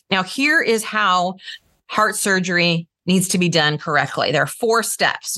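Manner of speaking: measured, deliberate statement curling down at the end; authoritative, falling cadence. Shown as a demonstration. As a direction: lay down the facts with authority. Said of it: "more of that authoritative".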